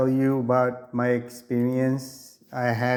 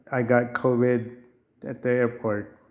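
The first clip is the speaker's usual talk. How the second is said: nasal voice. Real, not acted. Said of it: "this nasally voice".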